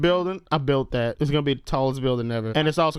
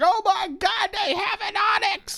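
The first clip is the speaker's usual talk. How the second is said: high, shocked exclamation; shocked gasp. Retold or imitated. Acted shocked quote.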